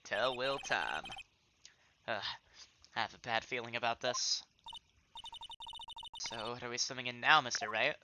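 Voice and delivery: folksy cowboy cop, slowing down his sayings; lazy Southern cowboy musing; cowboy detective. Acted. Cowboy detective character lines.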